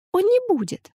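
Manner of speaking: put-on high, earnest little girl voice; little girl promising. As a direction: promise it like a small child.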